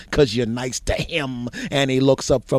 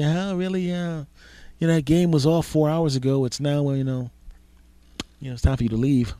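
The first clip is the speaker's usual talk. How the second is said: sarcastic inner voice; 4 semitones higher than usual. Acted. Host's unspoken thoughts to guest.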